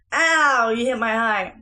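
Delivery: quick pained ow; sudden ow. Real, not acted. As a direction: yelp at a poke in the eye. Child hits her eye.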